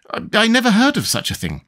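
high, stammering disbelief; astonished. A narrator's reading. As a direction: stammer it in high-pitched amazement. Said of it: "repeated in great astonishment".

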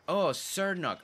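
"Cernok" with an open "ok" ending; easier pronunciation. Real, not acted. Trying the easier name aloud, "Cernok" ending in open "ok". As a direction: say "Cernok", second syllable like "knock". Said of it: "That sounds easier to say".

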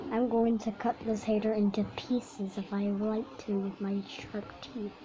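menacing whispered threat; threatening whisper. Acted. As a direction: dinosaur villain whispering a threat.

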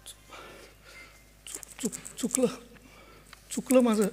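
barely audible, faltering remorse; broken apology. Acted. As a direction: choke out the apology. Father breaks down in remorse. (तुटक, अगदी हळू)

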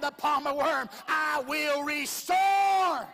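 slow, drawn-out shouted proclamation; preaching. Acted. Preacher quoting God to the church, slow booming proclamation. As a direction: thunder the promise as God's word.

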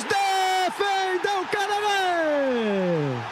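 drawn-out shout; excited save call. Real, not acted. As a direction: stretch out the save cry. Penalty save in shootout. (grito de defesa arrastado)

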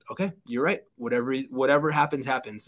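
retelling a sarcastic give-in, lightly voiced; mock resignation, tossed off quickly at the end. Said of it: "in the most sarcastic voice you can imagine".

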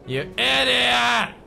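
high, loud, slow outraged shout; mock angry shout. Companion voiced scolding the player, mock angry shout.

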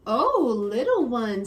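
mom's voice. Acted. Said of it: "says my".

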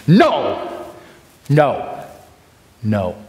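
each "no" stopped sharply, falling; tucked nos. Shown as a demonstration. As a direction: cut every "no" with a tuck. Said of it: "the tuck at the end".

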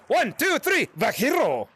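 high-pitched count, mild yell on the name; group scream countdown. Real, not acted. Streamer leading fans on three, mild group scream. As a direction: count off brightly, then call out the name. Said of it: "we're gonna scream Vaquero".

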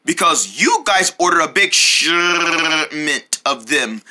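slow, drawn-out clerk; slow shopkeeper voice. Acted. Clerk blaming the boys for the big order, slow. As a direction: let the clerk drag the blame out. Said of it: "talking like that makes me wanna gag".

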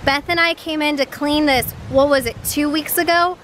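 real indignation, leaning hard on key words; livid. Real, not acted. Cleaner back at a littered spot, livid. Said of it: "I am so livid right now".

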